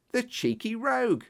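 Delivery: indignant cry. A narrator's reading. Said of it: "I cried".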